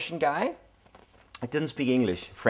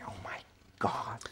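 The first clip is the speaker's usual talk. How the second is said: softer, hushed mock disbelief; quiet, dismayed oh my God; mock stunned hush; 5 semitones lower, 10 dB quieter than usual. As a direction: gasp it out under your breath, aghast. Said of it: "And I was like".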